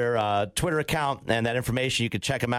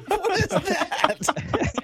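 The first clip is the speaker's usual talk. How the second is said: laughing; much slower than usual. Real, not acted. Laughing at odd comment.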